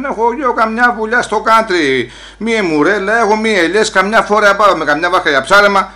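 indignant, mildly shouted rant. Acted. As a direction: raise your voice in protest. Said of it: "Μη φωνάζεις έτσι".

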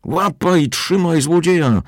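high, slow screech; yelling. A narrator's reading. Stout woman screaming at the crowd to catch the thief. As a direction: call the crowd to grab him. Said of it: "wrzeszczała jakaś tęga pani".

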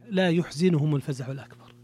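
يحزنهم said "yuhzinuhum", u first and i after the z; Abu Ja'far's reading. Shown as a demonstration. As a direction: recite يحزنهم as "yuh-zi-nu-hum". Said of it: "خالف فيه أبو جعفر، آه، أصله فقرأه".

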